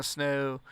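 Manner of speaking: "snow" with an aristocratic English O; Southern O in "snow". Shown as a demonstration. Explaining Southern accents, rounded O in "snow". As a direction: end "snow" on a posh English-style Southern vowel. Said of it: "anything that ends in O".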